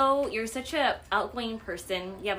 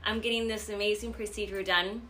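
talking with a numb tongue; 4 dB louder than usual. Real, not acted. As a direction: speak as if the tongue is numbed. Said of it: "my tongue is completely numb".

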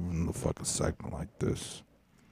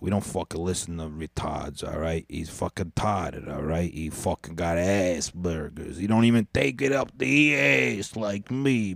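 hammed-up Yusef accent. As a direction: put on the Yusef accent for the rant. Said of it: "switched back to the Yusef accent".

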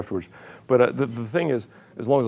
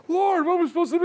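much higher, giggling helpless plea; laughing mock plea; faster than usual. Real, not acted. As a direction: plead to the Lord while laughing. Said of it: "and the church".

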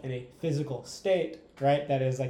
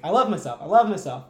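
loud, higher, full of excitement; excited; 4 semitones higher, 8 dB louder than usual. Shown as a demonstration. Showing the right way to chant an affirmation, loud and excited. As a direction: shout it like you truly believe it. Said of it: "like, excitement".

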